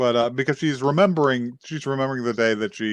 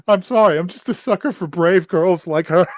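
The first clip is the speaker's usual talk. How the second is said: high-pitched weepy imitation, laughing at the end; hammed-up tearful apology, pitched up and loud at first; mock tearful; 4 semitones higher, 3 dB louder than usual. Crying girl apologises for admiring her brave friend, mock tearful. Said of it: "like, fucked up crying over".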